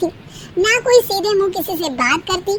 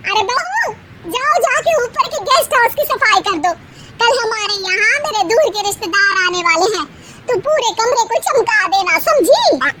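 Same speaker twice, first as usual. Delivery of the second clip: mother-in-law ordering; 5 semitones higher than usual. Acted.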